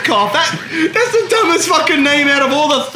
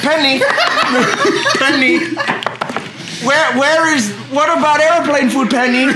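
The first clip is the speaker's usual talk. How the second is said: lightly imitated stand-up comic; Jerry Seinfeld; 3 semitones higher than usual. Comedian asking about airplane food, hammed-up impression. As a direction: do a mock observational-comic voice, muddled accent. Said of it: "I'm doing a Seinfeld impression".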